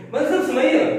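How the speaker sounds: a friend pushing harder for the song. Retold or imitated. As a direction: beg the teacher with growing insistence. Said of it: "tone बढ़ जाता है ना".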